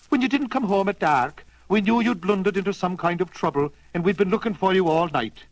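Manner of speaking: light Irish voice, fond and easy; Irish setter. Acted. Irish setter tells friend they searched all night. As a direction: reassure him you all searched. Pat continues.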